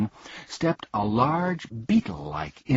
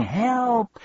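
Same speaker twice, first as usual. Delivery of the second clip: very high, louder cry with falling end; shouting for help; 4 dB louder than usual. Acted. Bee pinned under Milo, high cry for help. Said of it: "lay there shouting".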